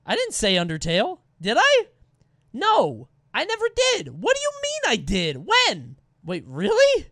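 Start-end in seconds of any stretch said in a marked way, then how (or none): 1.4-6.0 high, loud disbelieving protest; incredulous denial. Real, not acted. Denies saying Undertale, surprised.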